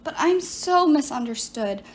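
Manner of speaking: lightly voiced sorceress, self-pitying; a hint of a wronged enchantress pleading her case; sorceress Medea. Medea explains herself to Piper, lightly voiced silky sorceress.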